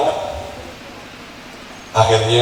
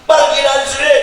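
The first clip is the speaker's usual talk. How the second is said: angry mother; 6 semitones higher than usual. Retold or imitated. Angry mother driving child out.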